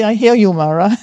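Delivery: calmly but firmly dismiss the tempter; firm address to Mara; firm acknowledgement. Retold or imitated. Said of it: "I say".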